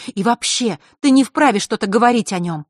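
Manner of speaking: heated, indignant voice; snapping back. A narrator's reading. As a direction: tell him off hotly. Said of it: "огрызнулась Василиса".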